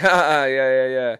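fake laugh along.

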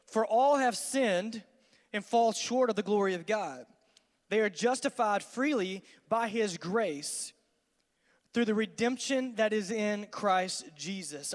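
slow, deliberate reading of scripture; solemn Bible reading. Acted. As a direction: lay each phrase out slowly. Reads scripture slowly.

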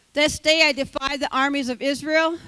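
loud challenge at normal pace; loud defiance. Acted. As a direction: fling the dare out loud. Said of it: "the Philistine said".

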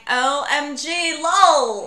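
imitated British accent. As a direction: parrot a coworker's slang in faux British. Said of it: "so it's very like that".

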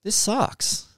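high, put-on voice for the computer. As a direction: voice the lazy Mac refusing. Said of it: "it's just like".

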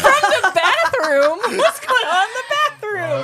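high, slow incredulous repeat; mock surprise. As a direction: drag out the disbelief. Mocking repeat of the bathroom.

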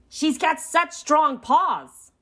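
high, slow smitten voice; gushing excitement. A narrator's reading. Fredo tells Pinky about his date, gushing.

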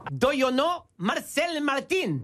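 slow mock-Mexican English; hammed-up Mexican accent; joke Mexican accent. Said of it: "Au Mexique, on dit".

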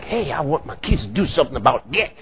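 put-on a low, hurried nudge to his kids; God urging his children. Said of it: "He feels it like".

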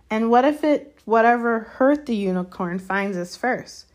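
high, loud start, slowing on the end; anxious question, fear leaking through; fearful. A narrator's reading. Malfoy asking about the unknown killer, fearfully. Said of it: "unable to keep the fear out of his voice".

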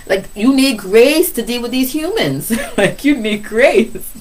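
high, laughing punchline. Real, not acted. Preacher laughing with congregation, high amused delivery. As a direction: chuckle through the point.

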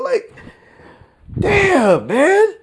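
mock confused. Staying in mocking high voice.

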